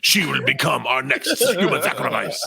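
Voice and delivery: slow sinister pronouncement with a laugh; hammed-up villain. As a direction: gloat like a cult priest. Villain cult voice.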